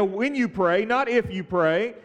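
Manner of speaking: "you" and "not" leaned on; stress on when and not. Shown as a demonstration. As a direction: press the contrast "When you pray, not if". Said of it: "repeats when not if".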